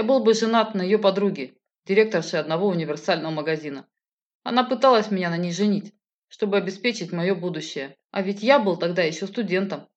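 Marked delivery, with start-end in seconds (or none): none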